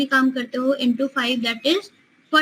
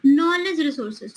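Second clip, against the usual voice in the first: slow, deliberate exam-question reading; reading a question aloud; much slower than usual. Acted. Teacher reading a quiz question to students, slow and deliberate. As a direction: read it out word by word for the class.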